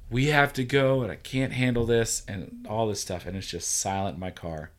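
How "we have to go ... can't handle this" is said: mild mock yell; retold yelling. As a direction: raise your voice a little, higher and louder. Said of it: "like, yelling".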